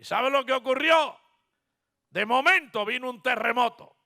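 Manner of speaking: loud, high pulpit proclamation; impassioned preacher's cry; preaching at full force. Acted.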